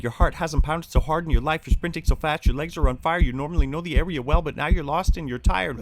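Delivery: high, loud, frantic narration; breathless panic as you run. Acted. Story climax, frantic narration.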